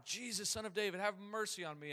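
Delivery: high-pitched plea without added volume; retold cry. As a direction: retell a shout at normal volume. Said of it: "he cries out even louder".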